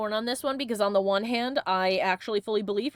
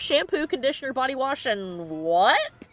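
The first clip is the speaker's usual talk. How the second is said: higher, incredulous reaction to a product claim; skeptical questioning; 5 semitones higher than usual. Acted. Listing what a five-in-one supposedly does, skeptical. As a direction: question it in higher-pitched disbelief. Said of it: "would me to be like".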